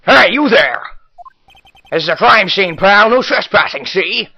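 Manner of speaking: tough-guy detective voice, loud opening; gruff cop. Acted. Detective warns off a trespasser, gruff gangster voice. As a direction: bark it like a 1940s gangster cop.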